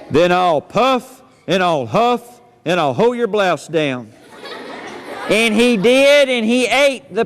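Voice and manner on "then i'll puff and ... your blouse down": wolf threatening to blow the house down; wolf threat. Acted. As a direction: lower menacing wolf voice.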